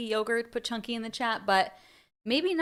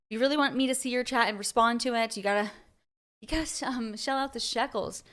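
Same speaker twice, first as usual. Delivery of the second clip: slightly breathless talk; talking while short of breath; 2 semitones higher than usual. Real, not acted. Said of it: "Wow, I'm out of breath".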